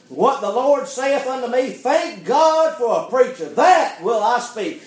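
emphatic preacher, swelling on key phrases; impassioned preaching. Real, not acted. Preacher thanking God for bold preachers, impassioned preaching. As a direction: declare it to the church with rising force.

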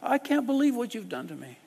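high-pitched insulting outburst; furious, shrill-pitched accuser; launching attack. Acted. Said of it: "this guy launches at you".

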